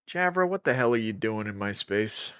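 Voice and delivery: pinched nasal voice with nose held; plugging nose voice. Acted. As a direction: talk while holding your nose shut. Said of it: "Are you plugging your nose while you do that voice?".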